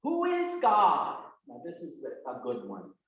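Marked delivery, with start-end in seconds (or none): 0.0-1.2 slow, higher question; slow high quiz question. Shown as a demonstration. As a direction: pose it slowly like a teacher. Teacher posing catechism question.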